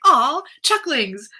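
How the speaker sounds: slow, high and loud cooing aww; drawn-out gushing aww. Retold or imitated. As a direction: gush over something cute. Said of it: "it just made me think".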